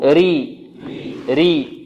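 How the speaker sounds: "ري" with thin R and held i, pause after; light ra drill. Shown as a demonstration. Teacher leads class repeating after him, light ra. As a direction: keep "ري" light and long for repeating. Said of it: "انطقوا معي".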